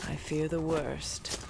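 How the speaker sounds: usual speaking voice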